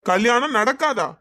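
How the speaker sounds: slow, loud, mocking repeat; scornful echo. Groom scoffs at her claim the wedding won't happen, loud and slow. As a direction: drag it out to mock her.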